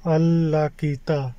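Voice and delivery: "अल लाकीता" said slowly, stretching "अल"; saying the place name. Shown as a demonstration. Vlogger telling viewers where he is, slowly saying "अल लाकीता". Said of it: "ये नाम है".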